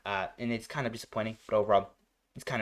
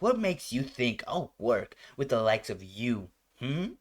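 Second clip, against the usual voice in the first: sassy; slower than usual. Retold or imitated. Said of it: "Like, kind of sassiness".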